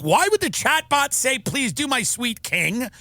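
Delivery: lightly voiced bewildered parent; a hint of a frantic parent; distraught parents. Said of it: "the parents are like".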